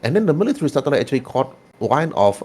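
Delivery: measured, dramatic backstory telling; game master narration. Acted. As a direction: recount the character's history with weighty pauses.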